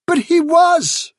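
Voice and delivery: high, drawn-out indignant protest; shouted protest. A narrator's reading. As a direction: insist loudly, pitched right up. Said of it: "shouted Hafsa".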